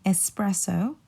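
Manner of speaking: espresso with S, no X, rising at the end; ess-PRESS-o for espresso, lifted ending; correct espresso. Shown as a demonstration. Teacher sums up the second word, espresso without an X. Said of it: "pronounce it without the X".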